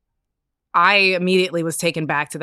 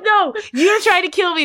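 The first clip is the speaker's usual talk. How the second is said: high, loud mock accusation; retold yelling; 12 semitones higher, 5 dB louder than usual. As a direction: yell the accusation in comic outrage. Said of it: "I'm yelling at the tumor".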